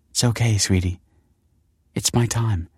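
gentle, slightly tremulous reassurance; tender and close to tears; quavering. A narrator's reading. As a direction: let the voice quaver a little. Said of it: "her voice quavering".

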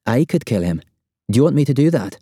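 a touch of tight, restrained fury; repressed fury. A narrator's reading. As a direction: hold the anger in while offering. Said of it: "shaking with barely repressed fury".

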